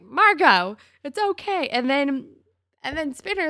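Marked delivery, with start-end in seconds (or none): 0.0-1.7 high-pitched cooing reassurance; exaggerated, high sympathy; mock consoling. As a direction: play at comforting a sad puppy. Acted consoling reply to sad Marco.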